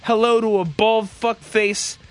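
punchy radio host welcome; show host intro. Acted. Host welcoming listeners to the Tuesday night show, radio hype. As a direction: announce the show with hype, leaning on key words.

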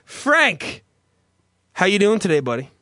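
punchy radio host welcome; show host intro. Acted. Host welcoming listeners to the Tuesday night show, radio hype. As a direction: announce the show with hype, leaning on key words.

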